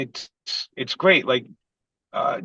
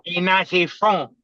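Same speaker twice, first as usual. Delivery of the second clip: slow, higher imitated Spanish accent on "Ain't nothing from"; 4 semitones higher, slower than usual. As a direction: repeat the accented line slower and a bit higher. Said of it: "he had a heavy Spanish accent".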